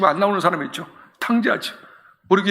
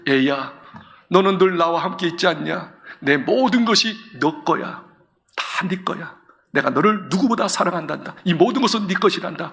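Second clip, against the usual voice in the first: gentle fatherly embrace. Acted. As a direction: speak like you are hugging him, no raised voice. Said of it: "그러고 난 다음에 어떻게 해요".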